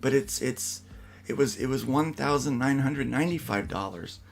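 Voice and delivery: mock tearful confession. Wife pranking husband on speakerphone, hammed-up tearful. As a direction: fake near-tears apology, lifted pitch. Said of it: "trying to hold back tears".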